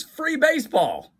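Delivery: excited aside. Acted. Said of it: "I added that in there".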